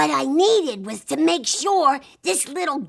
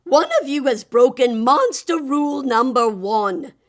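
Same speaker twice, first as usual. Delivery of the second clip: loud, lightly voiced monster laying down the rules; a hint of a weary monster teacher; lecturing monster; 6 dB louder than usual. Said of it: "the voice sighed".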